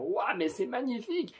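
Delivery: exclamation aiguë, les yeux grands ouverts; s'extasier d'une voix haut perchée; émerveillement joué. Acted. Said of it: "avoir les yeux grands ouverts et on va se dire". (émerveillé, en français)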